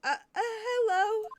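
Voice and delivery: high, loud, stretched-out hello; loud, drawn-out "excuse me?" tone; startled disbelief. Real, not acted. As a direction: react in baffled shock. Startled reaction to game.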